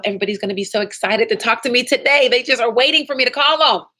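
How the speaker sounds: fast, rising, eager affirmation; excited self-talk. Shown as a demonstration. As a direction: hype yourself up before calling. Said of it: "Make sure you're telling yourself".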